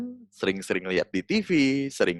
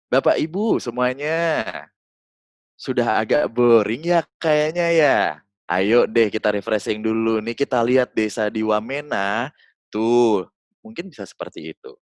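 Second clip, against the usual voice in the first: casual friendly. Shown as a demonstration. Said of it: "ada beberapa penekanan".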